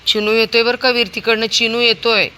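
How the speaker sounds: loud warning to a pet; warning call. Real, not acted. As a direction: warn him the dog is coming. Warning dog.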